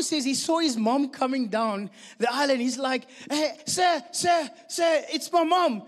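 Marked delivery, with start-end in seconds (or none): 3.3-5.8 put-on higher, urgent child calling for attention. Lost boy telling the security guard he sees his mother, urgent calling out. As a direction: call out eagerly like a boy who spots help.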